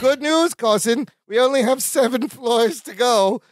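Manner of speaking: bright, lifted quote of Balki; cheery Balki. Retold or imitated. Co-host quoting Balki's cheerful news, lightly voiced. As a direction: chirp the good news like Balki. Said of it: "Balki goes".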